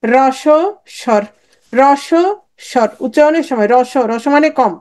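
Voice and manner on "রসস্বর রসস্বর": রসস্বর stretched very slowly syllable by syllable; drawn-out memory aid. Shown as a demonstration. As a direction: drag out রসস্বর so students remember it. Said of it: "কেমনে মনে রাখবা?". (খুব ধীরে টেনে টেনে রসস্বর বলা)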